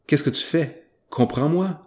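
frustrated. Retold or imitated. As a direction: scold the smart speaker in frustration. Scolding a voice assistant.

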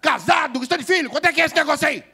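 loud, high scolding of a careless brother; scolding sermon. Retold or imitated. Eldest brother lecturing his indebted sibling, loud and scolding. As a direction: give the reckless younger brother a real telling-off. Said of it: "O mais velho dá aquele sermão".

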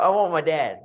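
mock wail for dad; wailing for dad after a lost tournament; crying out. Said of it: "crying out".

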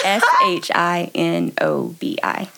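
S H I N O B I, each letter slowly; spelling it out. Shown as a demonstration. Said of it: "Could you spell it for us?".

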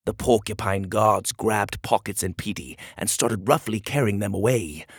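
measured storybook narrator; story narration. A narrator's reading. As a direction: read the tale to young listeners.

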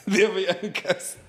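put-on echoing the Indian accent while laughing; mock Apu accent. Friend repeats the Apu line, laughing in a mock accent. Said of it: "Como Apu".

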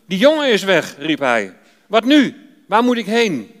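a touch of panic, pitch jumping up; mild alarmed cry. Acted. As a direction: brother finding the pit empty, rising alarm. Ruben cries out at pit.

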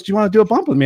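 a hint of a party host; lightly voiced party host. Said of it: "And she goes".

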